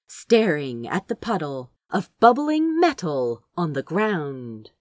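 plain reading voice

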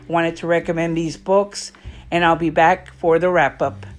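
slightly breathless while talking; out of breath. Real, not acted. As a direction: talk a little winded from moving around. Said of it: "If I sound out of breath".

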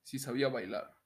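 announcer-style narration with deliberate pauses; voz de locutor. Pretend. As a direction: read it out in measured, evenly pitched phrases. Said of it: "la voy a leer con mi voz de locutor". (voz de locutor, pausada y pareja)

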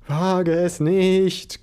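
a panicked nerd forbidding it; frantic warning. Acted. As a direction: stop him before he touches the keyboard. Chris threatens Spike.

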